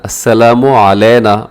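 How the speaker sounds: अलैना said as flat "a-lay-na", no throaty ayn; everyday Urdu reading of अलैना, diphthong flattened; wrong pronunciation. Shown as a demonstration. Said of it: "अलैना गलत है".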